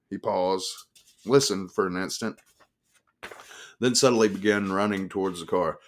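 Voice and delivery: ordinary delivery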